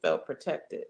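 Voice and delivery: hypothetical doubter. Acted. Speaker voicing a doubting listener, hesitant. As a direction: lightly voice someone hesitant and unsure. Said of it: "if a person wanted to know".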